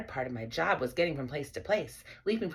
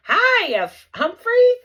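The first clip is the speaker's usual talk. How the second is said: high, loud cheerful call; 13 dB louder, slower than usual. Acted. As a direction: call out to find him. Boy calls the hamster.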